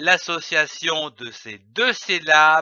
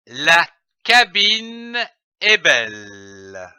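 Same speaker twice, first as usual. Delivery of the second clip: careful reading aloud; slower than usual. Shown as a demonstration. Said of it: "Je lis une phrase".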